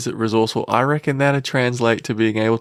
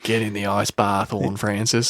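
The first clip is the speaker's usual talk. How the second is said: lightly voiced tough footballer; a hint of a footballer taunting his rival; Cam Zurhaar voice. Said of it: "that's my impression of Zurhaar".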